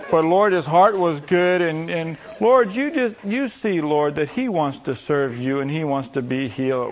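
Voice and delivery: slow, drawn-out pleading parody; mock intercessory prayer. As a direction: plead haltingly on his behalf. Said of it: "how we would have prayed for the leper".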